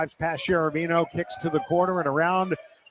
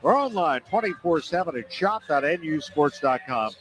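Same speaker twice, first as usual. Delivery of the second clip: chipper 1950s ad. Acted. Upbeat fan store ad.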